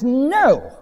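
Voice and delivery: hammed-up wounded pride; mock inner protest. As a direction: dig your heels in, acted but not shouted. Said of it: "Everything within us screams out and says".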